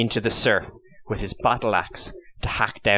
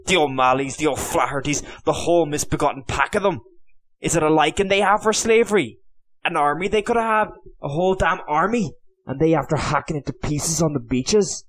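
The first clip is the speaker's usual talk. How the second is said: loud and much higher, pacing in fury; raging tirade; 5 semitones higher, 4 dB louder than usual. A narrator's reading. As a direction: rant at the traitors, voice climbing. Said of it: "wild with rage and frustration".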